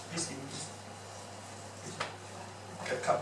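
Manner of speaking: soft, quiet asking for the cup; soft request. Shown as a demonstration. Speaker showing students a soft tone, gentle quiet request. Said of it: "You see the difference?".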